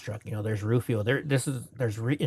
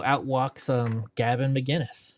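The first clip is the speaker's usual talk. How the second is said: ordinary talk, nothing marked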